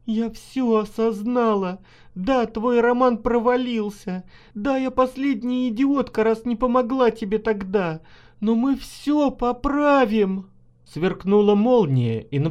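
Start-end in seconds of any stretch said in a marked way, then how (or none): 0.1-10.5 tearful pleading. A narrator's reading. Kneeling wife cries to her husband, high tearful plea. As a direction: sob out her promises on her knees. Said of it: "заплакала и опустилась на колени".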